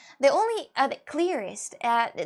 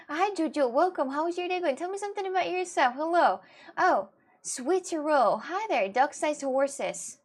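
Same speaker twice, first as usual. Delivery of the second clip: higher, singsong greeting; cheery welcome; 5 semitones higher than usual. Real, not acted. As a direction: greet a newcomer brightly. Greeting newcomers to the stream.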